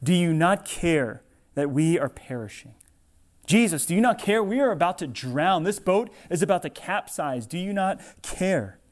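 a frightened plea, voice climbing then fading; disciples crying out. Retold or imitated. Disciples in the storm cry to Jesus, mild pleading cry. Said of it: "they cry out".

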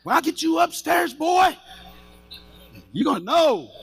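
angry threat. Retold or imitated. Dad threatens boys after scare.

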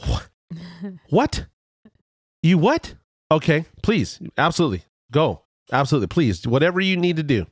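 high, incredulous, then gushing yes; can't believe the kindness, jump high; stunned disbelief. Retold or imitated. Told John will swap the tire at home, high stunned gratitude. Stunned by stranger's generous offer.

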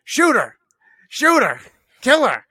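loud, high-pitched excited yell; re-enacted yelling at a live screening. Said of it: "I'm yelling".

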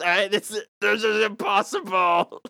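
mock straining yell. Acted strain in puke battle.

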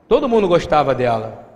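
normal talking voice

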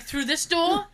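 mock-questioning sass; sassy backtalk. Patient questioning the doctor's directions, sassy. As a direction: ask it with cheeky attitude. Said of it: "I'm just sassing him back".

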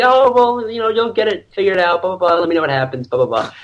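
imitated mom calming someone down. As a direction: reassure lightly, up high, brushing through it. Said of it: "trying to calm me down".

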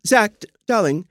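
"darling" with barely any R; Joan Collins darling. Shown as a demonstration. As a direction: skim over the R in "darling". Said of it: "Joan Collins taught us how to say it".

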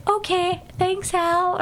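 retold cute reply; cute acceptance. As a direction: accept a date shyly, lightly imitated. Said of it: "very cute".

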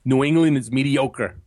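half-hearted New York accent, r still sounded in "mediocre"; tentative try at a coach's New York accent; Mike Petke, attempted accent. Shown as a demonstration. Co-host trying out his coach impression, light New York accent. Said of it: "I'm trying to, my, my Mike Petke".

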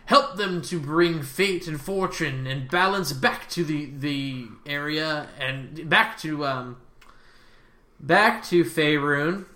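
slow, halting priestess's prayer; impromptu prayer. Acted. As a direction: plead with the goddess, groping for words. NPC prays over the font.

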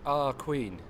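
Manchester "Our queen" with a stretched flat "our"; Mancunian accent. Shown as a demonstration. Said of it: "like our kid".

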